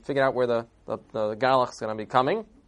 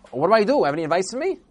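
high, loud pleading; desperate plea; 6 semitones higher, 5 dB louder, much faster than usual. Acted. Father begging the innkeeper for advice, high and desperate. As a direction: beg for help, voice rising in panic.

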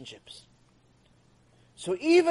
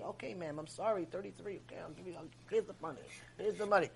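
much softer, apologetic and small; meek clerk; 14 dB quieter than usual. Retold or imitated. Clerk apologizing to a yelling customer, softly and meekly. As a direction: shrink back and say sorry softly.

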